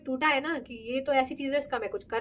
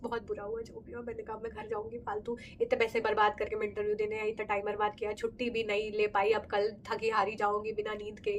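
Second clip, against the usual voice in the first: teary self-talk; 6 dB quieter than usual. Retold or imitated. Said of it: "आंखों में आंसू आ गए मेरे".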